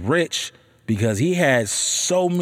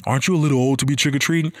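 snooty neighbor; much faster than usual. Retold or imitated. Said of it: "was like".

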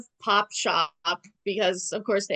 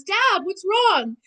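put-on higher, naive little-boy voice; childish Archie; 9 semitones higher, 3 dB louder than usual. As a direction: play Archie as a wide-eyed kid. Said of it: "Archie says".

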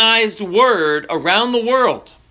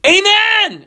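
very high, drawn-out desperate shout; top-of-lungs yell; 3 dB louder than usual. Acted. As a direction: yell it as a last-second command. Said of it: "at the top of his lungs".

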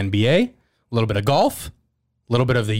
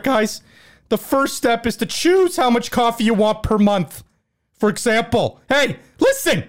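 halftime pep speech; 8 semitones higher than usual. Acted. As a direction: yell it like a fired-up coach. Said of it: "Coach Hines will be the celebrity character impression".

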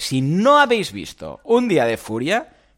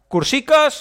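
mock cutesy squeak; 12 semitones higher, 6 dB louder, slower than usual. Mocking cutesy word for courses.

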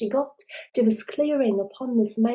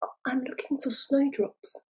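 stammering; 3 semitones higher, 7 dB quieter than usual. Acted. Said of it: "she, she stammered".

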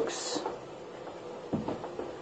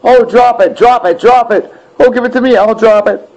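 higher, sing-song mock of commenters; 7 semitones higher than usual. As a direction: parrot them like an eager idiot. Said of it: "You're talking".

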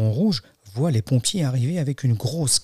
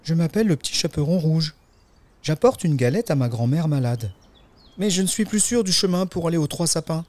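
put-on lightly raised storybook girl voice; a touch higher, childlike; little girl; 5 semitones higher than usual. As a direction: answer as a polite little girl. Girl answers the wolf.

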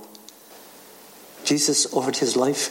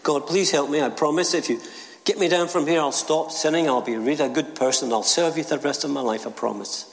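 higher, desperate bargaining plea; pleading; 3 semitones higher than usual. Acted. Jack hanging from the cliff, begging God, high and desperate. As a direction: beg God to save you, promising everything.

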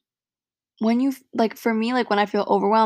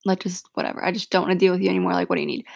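fake concern; faster than usual. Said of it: "Don't just be like".

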